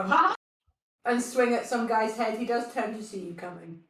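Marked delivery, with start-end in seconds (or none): 0.0-0.3 short, high "ha!"; mock battle cry. Player mimicking the noisy jump attack, mock battle cry. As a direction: leap in with a mock attack yell. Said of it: "and then go".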